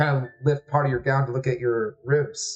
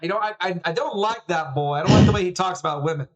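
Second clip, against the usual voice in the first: disapproving dad; 5 semitones higher, faster than usual. Acted. Father distrusts son's friend.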